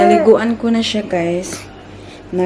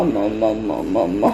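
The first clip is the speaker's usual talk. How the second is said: low, soft mock wail of mama; imitating baby crying; 11 semitones lower, 6 dB quieter than usual. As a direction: mimic the baby's crying mama. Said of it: "kapag umiiyak siya". (ginagaya ang iyak ng baby na mama)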